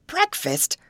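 high, loud disbelieving "Breakfast?"; shocked cry. A narrator's reading. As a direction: squeal it out in alarm. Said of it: "cried Grace".

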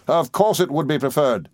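mildly exasperated gentleman; peremptory. Acted. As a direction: put the waiter in his place. Gentleman curtly orders the waiter.

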